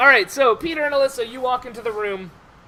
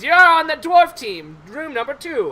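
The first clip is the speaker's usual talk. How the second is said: team announcer; 5 semitones higher, 5 dB louder than usual. Acted. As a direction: call out the team, starting loud. Game master voices an official assigning teams.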